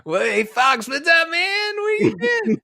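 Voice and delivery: squeaky, very high mouse voice; mouse greeting fox. Acted. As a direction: pipe up high like a tiny cartoon mouse. Mouse chats casually to the fox.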